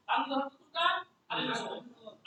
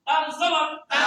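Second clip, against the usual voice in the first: louder, called out to the class; drill prompt; 7 dB louder than usual. Shown as a demonstration. Teacher calls the drill loudly to the class. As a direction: call the sound out for the children to echo. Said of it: "আপনারা উচ্চারণ করবেন".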